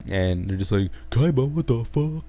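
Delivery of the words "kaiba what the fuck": high startled what the fuck; mock surprise. Mocking the heroes shocked to see Kaiba, high and startled.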